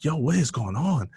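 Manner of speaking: imitating a baffled doctor; acted bewildered question. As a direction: burst in asking what's up. Doctor acted, alarmed by yelling.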